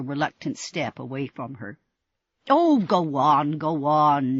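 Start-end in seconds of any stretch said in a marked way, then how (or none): 2.5-4.4 exasperated. Acted. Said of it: "she said, exasperated".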